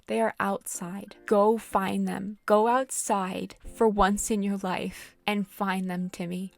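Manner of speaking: drawn-out stressed telling-off; annoyed lecture to lazy villagers; slow exasperated scold. Real, not acted. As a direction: spell it out to them. Scolding game characters.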